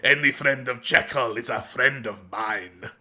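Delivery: playful pseudo-Russian strongman; pseudo-Russian accent. Acted. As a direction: fake Russian barbarian, teasing then friendly. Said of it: "a pseudo-Russian accent there".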